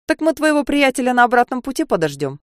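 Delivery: lightly voiced drunk threat; drunk with hiccups. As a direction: loose tipsy taunt. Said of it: "Он пьяно икнул".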